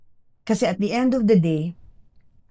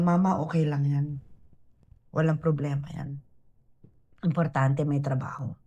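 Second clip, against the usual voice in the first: softer, lower voice of a comforting son; quietly reassuring, retold; calm reassurance; 4 semitones lower, 6 dB quieter than usual. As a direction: gently settle an upset mother, imitating her son. Son comforts his crying mother.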